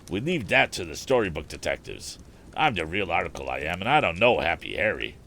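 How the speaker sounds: a hint of a rough tramp, proud of his trade; slangy hobo bragging to Tom; easygoing vagrant, mildly voiced; lightly voiced hobo. Hobo speaks in dialect.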